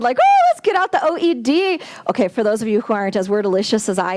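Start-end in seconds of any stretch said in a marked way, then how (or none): 0.2-1.8 lightly hammed-up eager teacher, higher and louder; mock excited. English teacher imagining the dictionary, mock excited and higher. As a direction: play the giddy English teacher. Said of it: "I get all excited".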